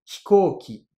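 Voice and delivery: hikoki with the i of hi barely sounded; devoiced vowel. Shown as a demonstration. Teacher shows the dropped i in hikoki. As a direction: say hikoki, whispering away the first i. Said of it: "pas véritablement".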